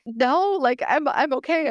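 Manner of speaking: retold high-pitched insistence; insistent reassurance. Speaker retelling how she assured the doctors, high insistent reassurance. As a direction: pitch way up, acting out a protest.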